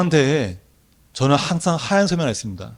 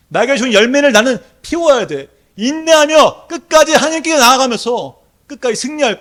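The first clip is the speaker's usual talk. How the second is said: high, louder declaration; proclaiming; 10 semitones higher, 7 dB louder than usual. Shown as a demonstration. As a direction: declare it over yourself. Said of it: "선포하십시오".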